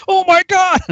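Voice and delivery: high, loud imitation of sergeants; mock outraged shout. How every sergeant began, mock outraged yelling. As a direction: yell it as a stock cry of horror.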